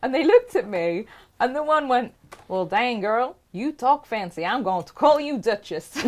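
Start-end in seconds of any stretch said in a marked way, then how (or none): 2.5-6.0 imitating a Texan woman's accent, only hinted; bad Texan accent. Retelling a Texan woman's nickname for her, mock Texan accent. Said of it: "that terrible accent".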